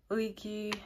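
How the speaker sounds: "Leaky" as a third pronunciation; brand name pronunciation. Shown as a demonstration. Reviewer listing ways to say the brand, pronunciation variant "Leaky". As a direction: offer "Leaky" as another way to say it. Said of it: "different ways of pronouncing it".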